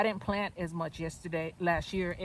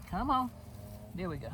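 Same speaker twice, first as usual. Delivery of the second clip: strained push; straining to pull it free; effort grunt. Real, not acted. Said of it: "I'm grunting".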